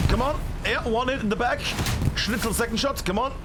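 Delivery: excited. Real, not acted. Caster urging a player's rocket shot.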